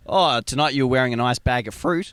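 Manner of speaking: a light broad Australian put-on; mock the old Aussie cliché lightly; Aussie slang. Co-host mocking Aussie slang, lightly broad accent. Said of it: "That rubbish".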